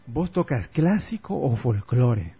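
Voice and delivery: put-on slow Argentine accent, voseo; Argentine taxi driver. Taxi driver asking the guitarist, slow Argentine accent. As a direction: imitate a porteño cabbie asking, drawn out. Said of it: "el taxista me ve con mi guitarra y me dice".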